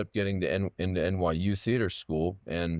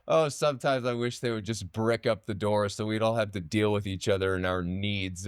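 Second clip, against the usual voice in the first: a lightly voiced dramatic teacher, somewhat higher; a hint of the theatrical teacher's lament; mock theatrical teacher sighing to his class; imitating the acting teacher; 4 semitones higher than usual. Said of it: "drop in his voice that he would do".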